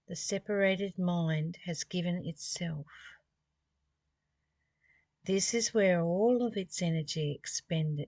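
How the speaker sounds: measured, reverent reading of the text; scripture reading. Acted. Teacher reads scripture to listeners, measured and reverent.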